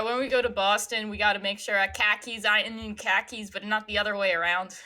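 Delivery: put-on playful Boston Southie accent. Joking about a trip to Boston, mock Southie accent. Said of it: "Get you a Southie accent".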